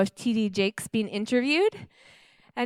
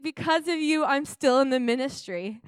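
weeping; 4 semitones higher than usual. Retold or imitated. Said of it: "started weeping and weeping".

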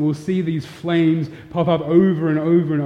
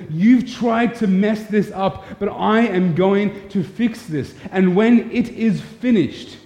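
slow, raised voice of God addressing the serpent; lightly voiced God, slow and higher; God speaking to the serpent; 5 semitones higher, slower than usual. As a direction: lift the pitch and slow right down, as God vowing to the snake. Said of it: "he says".

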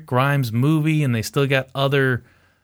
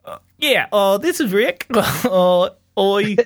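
put-on a much higher, hammy Australian accent; hammed-up Australian accent; 7 semitones higher than usual. Co-host requests it, host does a hammy Australian Rick. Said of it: "do it in Australian".

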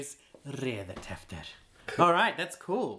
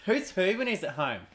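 Australian accent; 4 semitones higher than usual. Shown as a demonstration. Teaching the accent to a friend, lightly Australian. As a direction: say it like a laid-back Aussie. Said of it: "that's the accent".

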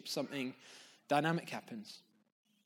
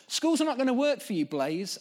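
father's voice; 7 semitones higher, 4 dB louder than usual. Acted. Voices the father addressing Blaise.

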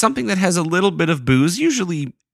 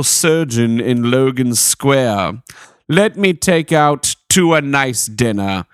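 regal voice; slower than usual. Acted. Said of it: "So I'll read it in that voice".

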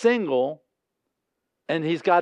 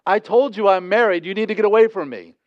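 raised voice, cutting him off; firm loud rebuff; 3 semitones higher, 4 dB louder than usual. Shown as a demonstration. Preacher acting out a woman telling off a pursuer, loud and firm. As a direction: make a scene, say it loud. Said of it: "I'm telling you right here, right now, a great plan would be".

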